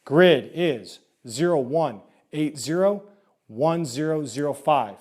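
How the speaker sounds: slow, deliberate grid readout; calm radio call for fire. Shown as a demonstration. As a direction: call each digit slowly over the radio. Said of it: "time for me to give them the grid".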